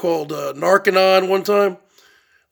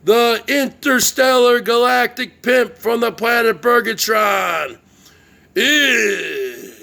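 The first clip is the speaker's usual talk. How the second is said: announcer sign-off. Acted. Vlogger signing off his show, shouted ring-announcer promo. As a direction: bellow the big self-intro like a ring announcer.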